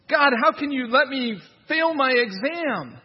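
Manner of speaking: high, loud mock lament to God; mocking a young man wailing at God; whiny complainer. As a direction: ham up a self-pitying prayer. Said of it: "blaming God for it".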